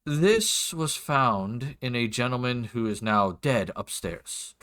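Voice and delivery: lightly voiced formal lord, deliberate pauses; a hint of a stately, aggrieved nobleman; lord's voice. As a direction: make a measured, courteous demand of an officer. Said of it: "do my best for his voice".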